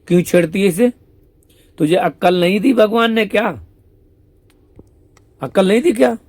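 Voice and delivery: mock scolding. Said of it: "Shyam सुंदर". (ऊँची, तेज़, धीमी खिंची डाँट)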